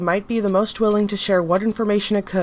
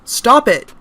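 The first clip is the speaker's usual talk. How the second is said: loud cry of strain; shouting in pain; 3 semitones higher, 8 dB louder than usual. Acted. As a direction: yell under crushing weight. Doctor forced down in chair.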